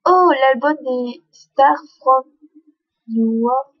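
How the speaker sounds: English words in a French accent, slowly; careful, drawn-out English with a French accent; unsure French-accented English; poor English accent. Real, not acted. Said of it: "mon accent anglais est pourrave".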